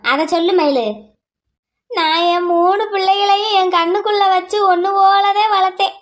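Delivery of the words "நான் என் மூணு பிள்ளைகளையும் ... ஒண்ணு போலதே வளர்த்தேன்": crying lament. Acted. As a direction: drag the words out through tears. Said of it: "நீ முதல்ல அழுகிறத நிறுத்துமா".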